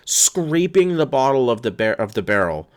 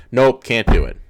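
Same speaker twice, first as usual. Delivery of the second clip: louder, flat dismissive no; curt mock refusal; 6 dB louder than usual. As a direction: slam the door on them. Mocking CBS's refusal.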